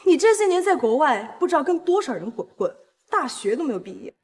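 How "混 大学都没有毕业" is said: scolding. Acted. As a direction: berate her for ruining the family. Elder sister scolds sibling.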